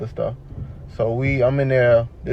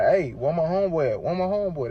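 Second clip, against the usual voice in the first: high-pitched retold demand; insistent questioning; 5 semitones higher than usual. Patient asking hospital staff about his friend, insistent questioning. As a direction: press them for an answer.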